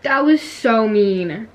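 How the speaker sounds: slow, laughing complaint. Real, not acted. Gamer laughing about being killed, laughing complaint.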